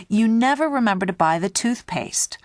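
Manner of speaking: mock reproach with a lifted pitch; accusing. Example of exaggerating to a partner, mildly accusing.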